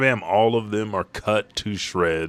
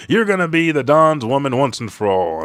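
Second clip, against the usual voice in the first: thug shout; 6 semitones higher, 5 dB louder than usual. Retold or imitated. Gangster shouting at queen.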